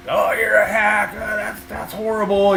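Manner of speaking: high-pitched imitation of outraged critics; mock outrage. Electrician mocking people triggered by a crooked-screw post, mock outrage. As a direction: whine it high, mocking fired-up commenters. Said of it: "get everyone just fired up".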